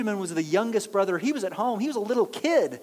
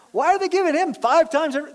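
laughing disbelief; 8 semitones higher, 6 dB louder, faster than usual. Retold or imitated. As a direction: laugh through it, higher and louder. Brothers puzzled at Benjamin's feast.

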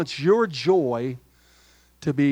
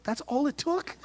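much higher, rising in mock disbelief; mock amazement; 10 semitones higher, 8 dB quieter than usual. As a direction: pitch it way up like a joking gasp. Mocking wife's fear, son got job.

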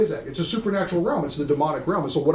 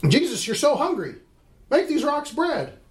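tempting devil; 9 semitones higher than usual. Acted.

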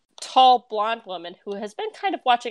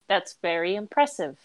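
stiff, deadpan politeness; very flat. Acted. Boy noticing his mother watching, very flat. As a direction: say it evenly, giving nothing away. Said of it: "he says very flatly".

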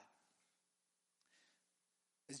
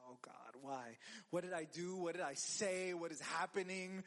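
mock dread; 3 semitones lower than usual. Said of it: "Those words terrify me".

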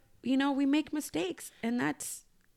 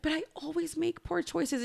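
higher, softer mock-tearful protest; upset child, imitated; 5 semitones higher, 6 dB quieter than usual. Mom retelling bawling daughter's protest, mildly plaintive. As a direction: lightly voice a child's lament. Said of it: "she's, like, bawling".

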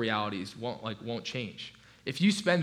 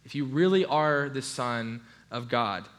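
lightly taunting challenge, quick and raised at first; mildly mocking Satan; 3 dB louder than usual. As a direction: goad him with a touch of mockery. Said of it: "Satan's almost kinda mocking him".

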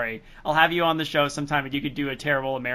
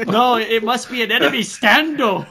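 mock alarm; 5 semitones higher, 5 dB louder than usual. Hamming up enemy Stando joke.

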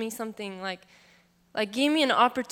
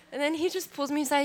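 laughing; 5 semitones higher, faster than usual. Real, not acted. Resumes story while still laughing.

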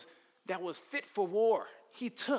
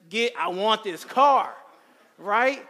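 put-on loud, high, brash teen shouting down his dad; defiant yell; 4 semitones higher, 12 dB louder, slower than usual. Son yelling at his father over the car, loud and defiant. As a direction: bark it like a cocky kid who won't listen.

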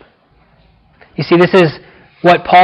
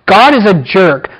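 mock accusation. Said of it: "their words against God".

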